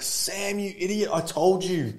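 very high-pitched mock mother voice; hammed-up motherly scolding; scolding mum. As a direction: imitate an exasperated mum telling off her son. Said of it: "And she's like".

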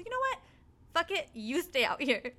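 retold exasperated dismissal; fed-up outburst. Giving up on the dog.

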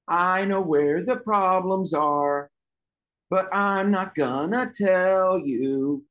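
slow, drawn-out sing-song teasing; mock childish gloating; playground taunt. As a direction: tease them, stretching every word. Acted hide-and-seek taunt.

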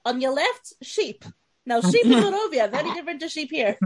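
imitated Barovian tour guide; Barovian accent. Friend imitating a tour guide pointing out sheep, Barovian accent. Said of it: "She did this accent all the way".

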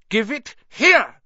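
high, loud, drawn-out yell; yelled demand. A narrator's reading. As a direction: yell the order slowly and forcefully. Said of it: "Harry yelled".

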